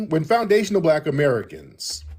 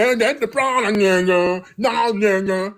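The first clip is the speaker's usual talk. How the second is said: mock quote; 3 semitones higher than usual. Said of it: "that don't sound like natural conversation".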